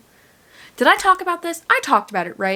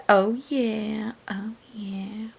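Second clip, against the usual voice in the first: playful whisper; 6 dB quieter, much slower than usual. Real, not acted. Playful aside.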